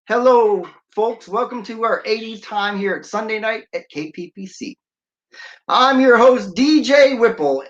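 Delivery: radio DJ intro. Shown as a demonstration. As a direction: sell it like a late-night radio host. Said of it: "this is what you'll hear me reading".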